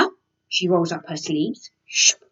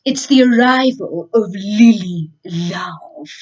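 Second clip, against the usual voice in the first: declaring; 4 dB louder than usual. Acted. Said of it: "and declared".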